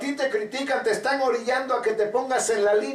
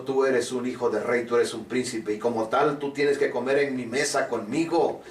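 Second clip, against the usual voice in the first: a lower, measured kingly voice; king's voice; 8 semitones lower than usual. Acted. The king telling Mephibosheth he is a prince, in a lower, kingly voice. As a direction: speak as a generous king granting a place at his table.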